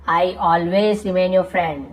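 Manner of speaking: each word spoken very slowly and carefully; slow model sentence. Shown as a demonstration. Teacher reading an example sentence to students, very slow. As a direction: spell it out slowly for the learners. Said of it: "teacher models example sentence".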